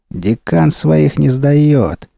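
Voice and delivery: very slow, proud declaration. Acted. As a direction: say it with pride. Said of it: "гордо вздёрнул подбородок".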